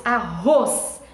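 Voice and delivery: arroz split, ROZ long and loud; drawn-out, emphatic "arroz" showing the strong syllable; stress on final syllable. Shown as a demonstration. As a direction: lean hard on the roz of arroz. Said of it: "Ros, é o ros final".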